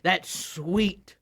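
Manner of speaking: slow longing for bamboo; drawn-out craving voice. Pretend. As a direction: savor the words slowly. Player character speaks.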